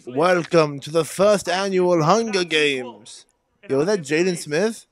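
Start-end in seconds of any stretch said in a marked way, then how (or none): 0.1-3.2 slow, drawn-out mock announcement; mock announcer. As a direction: announce it like a games host.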